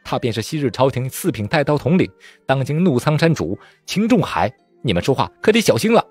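angry warning. Acted. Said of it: "大怒道".

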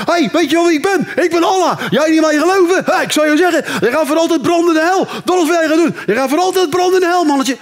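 hammed-up angry Allah. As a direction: boom like a furious god. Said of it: "Allah ... tekeer".

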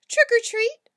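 high, loud festive shout. A narrator's reading. Spike shouts trick or treat at the spooky house, loud. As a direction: belt it out at the door. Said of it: "shouted Spike".

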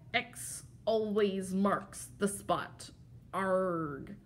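slow pirate voice with a final Arg. Pretend. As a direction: say it like a stage pirate, slowly. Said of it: "in your best pirate voice".

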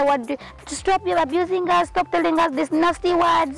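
mock offended parent pleading; mocking quote. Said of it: "someone will just come and say".

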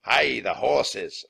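loud, slow, drawn-out alarm; rustler's shout. A narrator's reading. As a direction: holler it out to the gang. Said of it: "a rustler shouted".

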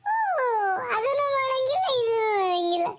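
wail, then whine the grievance; tearful whine. Acted. Boy grumbles to grandmother about rules, tearful whine. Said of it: "ಅಳ್ಬೇಡ ಸುಮ್ಕಿರಪ್ಪ".

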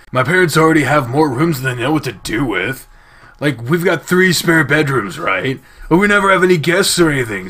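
lightly put-on voice for casual chat; a hint of a laid-back game character; lightly voiced character. Carl chats about his big house, lightly voiced character.

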